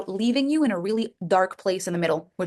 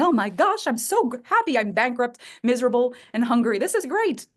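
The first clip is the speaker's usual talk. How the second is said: sarcastic fake happiness. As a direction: gush sarcastically as if thrilled while miserable. Sarcastic fake joy while broke.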